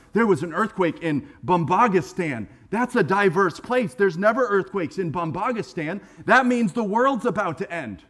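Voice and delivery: hammed-up fretting over world news; nervous. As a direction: act out a worried churchgoer spreading rumors. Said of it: "people get really nervous".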